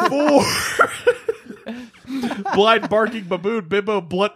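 breaking character giggling. Real, not acted. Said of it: "I can't keep a straight face".

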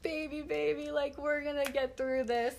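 calm a sobbing daughter gently; soothing mom. Retold or imitated. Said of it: "and my mom's like".

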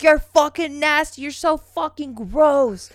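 high, loud mock disgust; hammed-up grossed-out scolding; imitating cussing brother. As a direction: cuss them out, slowing on the last insult. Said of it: "cussing and stuff".

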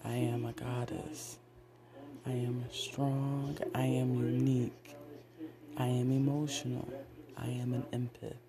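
measured self-affirmation chant; affirmation recital. Acted. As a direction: recite each affirmation like a vow. Recites I am mantras.

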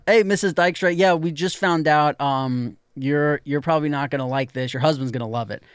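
lightly voiced nervous school official; awkward school caller. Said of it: "okay, ready?".

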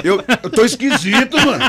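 high, put-on little voice; odd thin voice. Guest mimics his thin-voiced dubbing, high and comic. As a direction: imitate a comically high-pitched dub. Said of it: "Que voz é essa?".

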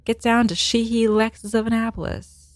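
playful imitation of a TV spot tagline; car commercial announcer. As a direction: put on a local car-ad voice. Mimics a local car dealer ad.

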